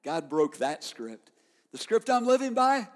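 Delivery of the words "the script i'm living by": high, loud declaration; preacher ringing out his creed; preaching shout. Acted. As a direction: proclaim it like a victory cry. Preaching peak on "by.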